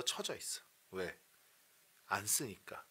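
ordinary talk

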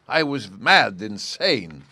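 agitated regret. Acted. King bewailing his own indiscretion.

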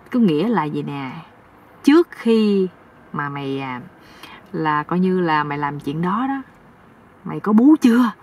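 a hint of hesitant, hinting elder; lightly voiced meddling uncle. (giọng ông chú hơi ngập ngừng, úp mở)

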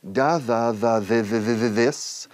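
"da, da, de, de" run quickly into "this"; sliding from D to TH. Shown as a demonstration. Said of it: "se asemeja casi al cien por cien de".

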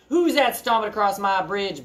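mildly bellowed challenge; a restrained storybook troll bellow. Acted. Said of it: "bellowed the troll".

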